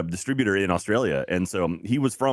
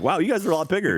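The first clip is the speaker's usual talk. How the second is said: high-pitched imitation of a surprised fan; amazed fan; 10 semitones higher, faster than usual. Fan meeting the Rooster Teeth crew, imitated amazement. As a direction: lightly mimic a fan's wow. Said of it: "And so it was like".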